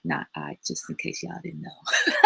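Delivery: soft, low, trailing into a laugh; laughing aside. Real, not acted. Closing her grammar joke to viewers, quietly laughing. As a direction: giggle it off quietly.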